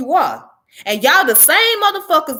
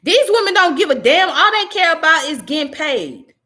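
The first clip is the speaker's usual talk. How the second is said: angry condemnation; 5 semitones higher than usual. Real, not acted. Vlogger condemning the leaders to his viewers, angry and raised. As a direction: spit the accusation out.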